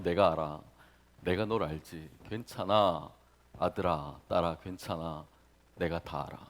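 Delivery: low, soft reassuring voice; God's comfort. Acted. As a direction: gently console a hurting child. God comforting the hurt believer.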